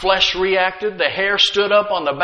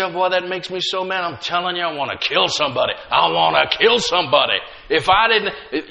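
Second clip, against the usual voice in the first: mock angry talk; 2 semitones lower than usual. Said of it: "You get upset and you say".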